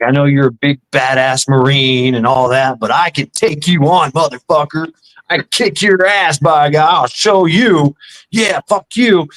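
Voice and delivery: mock drunk bravado; drunk taunt. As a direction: taunt him like a cocky drunk. Drunk kid taunting the speaker.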